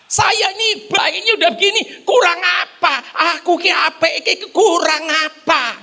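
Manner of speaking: mock a self-pitying churchgoer; indignant complainer. Preacher mocking a self-righteous complainer, half-laughing. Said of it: "ngomongnya gitu".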